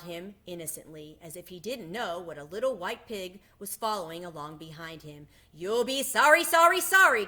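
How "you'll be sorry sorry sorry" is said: very high, loud goose warning; goose calling warning. A narrator's reading. Goose warning Wilbur as he leaves, loud high call. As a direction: sing it out like a scolding goose. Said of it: "called the goose".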